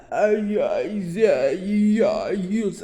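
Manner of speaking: imitating a hollow mummy voice; mock the horseman's mummy voice. Imitating the horseman's mummy voice at her window. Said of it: "like a mummy type voice".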